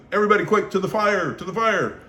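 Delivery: rally everyone to the fire; urgent command. Retold or imitated. Getting the camp to the fire, shouting urgently.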